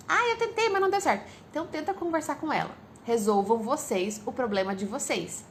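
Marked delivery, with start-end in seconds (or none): 0.1-1.2 put-on high little-girl whine; imitating a daughter's excuse in a high whine; whiny child. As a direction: play the child sulkily giving up. Daughter answers mother, imitated.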